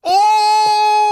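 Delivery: high, very loud reactive "oh"; drawn-out high yell of reaction; shouted outcry. Real, not acted. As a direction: erupt at the foul. Reacting to a bad foul live.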